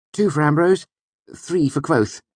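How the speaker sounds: high, bright judge's call; excited scoring. Acted. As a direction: announce the score cheerfully.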